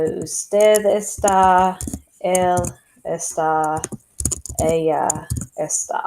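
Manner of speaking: usted está spoken slowly, each word separated; slow model phrase. Shown as a demonstration. Teacher modelling usted está slowly for students. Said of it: "that conjugation for these three is".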